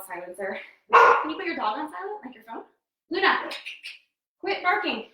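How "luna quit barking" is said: raised scolding call. Real, not acted. Telling dog off.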